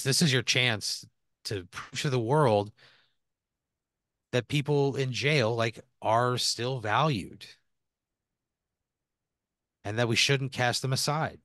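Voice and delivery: slow, earnest pep talk; a lightly voiced warden laying it on thick; inspiring warden. Warden urging Pat to prove himself, slow and earnest.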